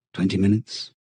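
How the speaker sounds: usual speaking voice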